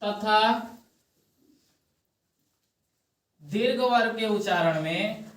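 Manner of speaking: slow, soft dictation with long pauses; dictating notes slowly to the class; dictation pace. Shown as a demonstration. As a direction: read it out phrase by phrase for writing down. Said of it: "लिख लो".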